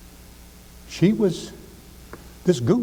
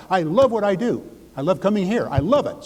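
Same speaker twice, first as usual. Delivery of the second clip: enthusiastic affirmation; 4 semitones higher than usual. Shown as a demonstration. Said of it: "I tell everybody, I'd say it to myself".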